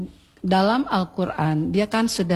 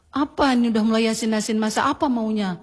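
quick, faintly grumbling mock complaint; a hint of a husband griping about salty food; mildly complaining husband. Husband grumbles to wife about salty duck, mildly mocked. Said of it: "dengan intonasi begitu".

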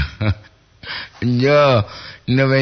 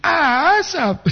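amused surprise; 12 semitones higher than usual. Real, not acted. Host amused by listener's word.

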